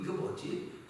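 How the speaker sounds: breathy murmur to yourself at the mirror; puzzled whisper over a pimple; whispered self-question. Retold or imitated. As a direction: wonder under your breath.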